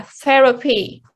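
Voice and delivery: therapy stressed on THER; THER-apy, first syllable strongest. Shown as a demonstration. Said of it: "the first syllable".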